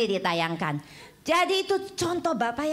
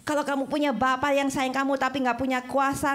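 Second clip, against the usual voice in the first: normal talking voice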